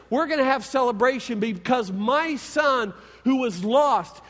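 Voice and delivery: father announcing his son's return to the servants, joyful; joyful announcement. Acted. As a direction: ring out the orders to celebrate. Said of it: "And his dad announces".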